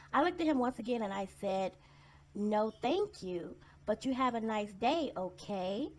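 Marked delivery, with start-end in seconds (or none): 2.4-5.9 slow, over-patient no thank you; talking down like to a child. Retold or imitated. Turning down a pushy salesman, slow and patronizing. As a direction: spell it out as if to a second grader. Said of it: "talk to him like they're second graders".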